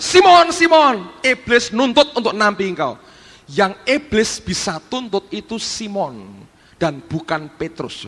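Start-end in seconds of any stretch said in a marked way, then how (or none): 0.1-2.9 shouted warning. Acted. The Lord cries out to warn Simon, shouting. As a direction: cry out the name, then warn. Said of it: "Lalu dia teriak".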